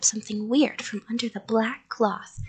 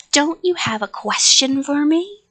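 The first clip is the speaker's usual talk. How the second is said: loud, raised monster voice; creature; 4 semitones higher, 7 dB louder than usual. A narrator's reading. Creature moving toward the child, monster voice. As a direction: challenge as the monster. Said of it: "the creature said".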